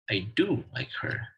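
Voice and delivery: full strong form on "do"; stress on do. Shown as a demonstration. Teacher giving an example of a strong form, stressing "do". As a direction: give "do" full stress, emphasising it. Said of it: "pronounced with full stress".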